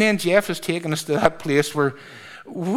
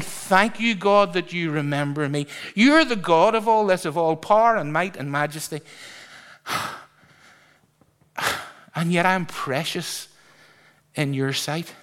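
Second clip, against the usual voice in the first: breathless praise; 3 semitones higher than usual. Shown as a demonstration. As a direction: pour out grateful wonder. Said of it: "He's engaging in breathless praise".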